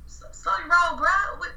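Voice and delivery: high, exasperated push-back. Real, not acted. Exasperated aside to absent guy.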